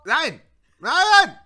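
very high, loud no; despairing scream. Real, not acted. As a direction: scream it as the chicken dies. Huhn stirbt, Frust. (verzweifelter, hoher Schrei)

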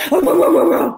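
loud, high volley of woofs; imitated dog barking. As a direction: bark like a scary guard dog. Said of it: "the dogs are like".

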